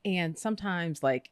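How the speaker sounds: ordinary talk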